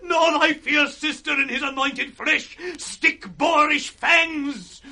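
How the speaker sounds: shouted, tearful outburst; crying, furious defiance; anguished defiance. Acted. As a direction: hurl it at them through tears. Gloucester defies his torturers.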